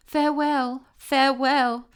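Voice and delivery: high, loud farewells, falling at the end; calling farewell. A narrator's reading. Tiny bidding the sun farewell, high and loud. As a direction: cry out the farewells longingly. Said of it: "she repeated".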